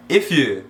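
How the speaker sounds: "if you" run together as one word; linked pronunciation. Shown as a demonstration. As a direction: join "if" straight onto "you". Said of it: "Lembrando de juntar a pronúncia".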